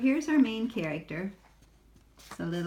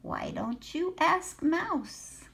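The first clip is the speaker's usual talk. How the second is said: high, slow, kindly offer; kindly duck; 10 semitones higher, slower than usual. A narrator's reading. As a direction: suggest it gently in a high duck voice. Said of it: "One duck offered kindly".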